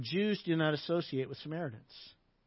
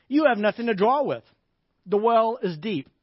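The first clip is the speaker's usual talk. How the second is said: louder, lightly sarcastic objection; hint of sarcasm; 4 semitones higher, 7 dB louder than usual. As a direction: push back with mild sarcasm. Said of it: "with a hint of sarcasm in your voice".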